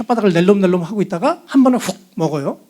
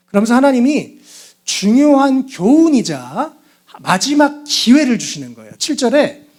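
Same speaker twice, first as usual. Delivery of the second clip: ordinary delivery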